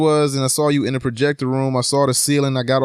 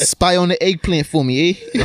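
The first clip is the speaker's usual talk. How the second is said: mock Italian accent; 2 semitones higher than usual. Joking impression of the show's Italians.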